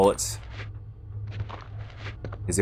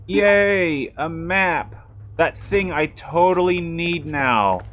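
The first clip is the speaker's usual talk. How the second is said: sarcastic cheer; 7 semitones higher, much slower than usual. Real, not acted. Sarcastic cheer at finding map.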